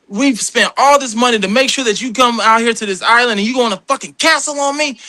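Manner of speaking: retold cussing out. Producer chewing out cast member over cancelling, retold cussing out. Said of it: "he's cussing me out".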